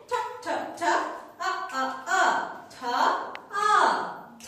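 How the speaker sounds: breathy puffs of ঠ, then আ, blended; teacher's drill of aspirated ঠ and আ; phonics sounding-out. Shown as a demonstration. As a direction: chant ঠ and আ in short beats, then join them. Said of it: "টি sounds like ঠ".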